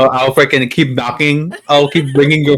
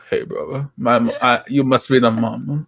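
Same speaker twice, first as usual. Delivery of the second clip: softer put-on straight-guy voice; 6 dB quieter than usual. Pretend boyfriend greeting the mom, half-hearted straight voice. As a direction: badly fake a straight man, slow and quieter. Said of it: "I'll be on my straight voice".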